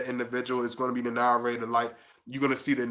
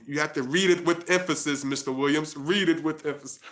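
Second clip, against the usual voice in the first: imitating art teacher; 3 semitones higher than usual. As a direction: lightly mimic a teacher urging a student. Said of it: "art teacher used to sh-, show me".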